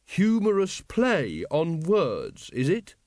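earnest lad slowly getting the joke; puzzled Carrot. Acted. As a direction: work it out word by word. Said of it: "he said eventually".

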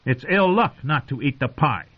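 high, mock-scolding young king; a spoilt king scolding his uncle over pie; scolding boy king. Joffrey scolds Tyrion, high and petulant. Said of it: "he scolded".

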